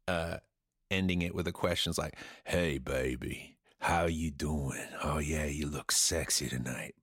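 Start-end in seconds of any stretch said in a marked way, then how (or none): 2.4-6.9 low, slow crooning seducer; deep lover-man croon; a soul singer's voice. Pretend. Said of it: "any song by a soul singer".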